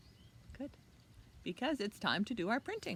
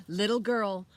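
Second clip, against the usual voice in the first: a hint of a pompous archduke, louder; lightly voiced archduke; 3 semitones higher, 12 dB louder than usual. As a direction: call out like a grand nobleman. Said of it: "said the archduke".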